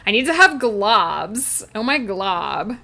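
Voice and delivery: put-on valley girl princess, amused; Lumpy Space Princess. Streamer joking with chat, valley girl princess imitation. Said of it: "Lumpy Space Princess voice".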